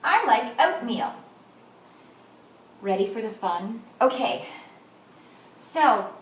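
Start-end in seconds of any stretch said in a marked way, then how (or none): 0.0-1.1 smooth reading. Shown as a demonstration. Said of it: "should be smooth and fast".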